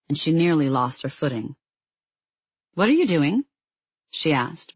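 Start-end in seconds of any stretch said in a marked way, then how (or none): 2.7-3.4 irritable. Acted. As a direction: ask sharply, caught off guard. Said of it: "more irritably than she'd meant to".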